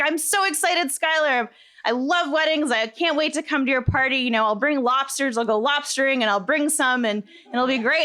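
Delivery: retold eager excitement, lightly lifted; excited friend. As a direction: imitate a friend gushing about a party. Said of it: "he gets so excited".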